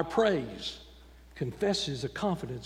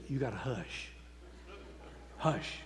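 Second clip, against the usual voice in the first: hushing; 4 semitones lower, 8 dB quieter than usual. Retold or imitated. Deacon shushing the shouter.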